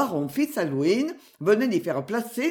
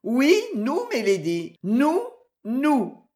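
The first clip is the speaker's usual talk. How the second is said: higher, playful insistence without laughing; mild amused retort; 5 semitones higher, slower than usual. A narrator's reading. Maid answering her surprised mistress, lightly amused. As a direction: retort merrily, repeating it. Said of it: "riposta la camériste en riant".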